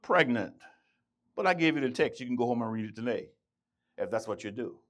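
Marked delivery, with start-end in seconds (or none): 0.0-0.5 preacher's version. Acted. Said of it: "this is the Jemot's version".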